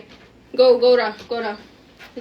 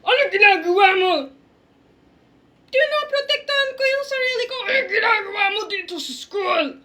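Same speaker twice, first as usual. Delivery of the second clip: angry principal; 3 semitones higher than usual. Acted. Principal Shark scolding student.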